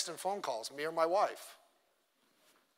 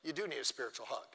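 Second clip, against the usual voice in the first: softer, gently soothing; mock gentle comfort; 2 semitones lower, 6 dB quieter than usual. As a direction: comfort them like a kind friend. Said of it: "a mercy says".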